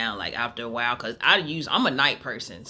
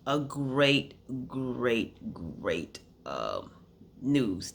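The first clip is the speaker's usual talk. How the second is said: falling away; much slower than usual. Real, not acted. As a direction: let the voice drop step by step. Voice sinks on repeated great.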